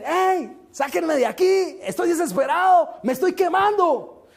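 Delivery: hammed-up wail of the damned; desperate screams. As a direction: plead to be pulled out of the fire. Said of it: "una serie de gritos que dicen".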